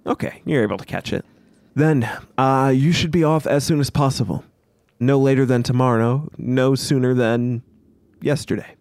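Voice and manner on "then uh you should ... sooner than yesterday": lightly voiced, deliberate send-off; the Riker, dismissive commander. Riker dismissing the party on their errand, lightly acted authority. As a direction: send them off with pauses for weight.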